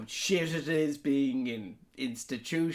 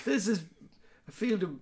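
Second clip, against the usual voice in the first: angry shout; 5 semitones higher, 3 dB louder than usual. Retold or imitated. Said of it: "leading the charge, saying".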